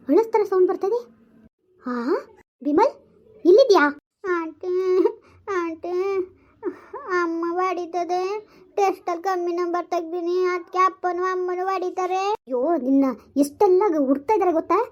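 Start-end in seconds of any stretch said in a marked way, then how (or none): 4.3-8.2 put-on scared child. Scared child hiding from parents. 8.8-12.2 put-on slow sing-song child's whine, ಟೆಸ್ಟಲ್ಲಿ drawn out; whining child. Child whining about getting beaten.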